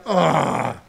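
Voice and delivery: a lightly acted high disbelieving groan; a hint of exasperated complaint at bad news; mock exasperation. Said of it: "you're like".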